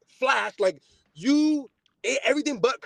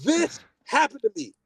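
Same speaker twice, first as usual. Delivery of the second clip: exasperated; 3 semitones higher than usual. Retold or imitated. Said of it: "I say it again".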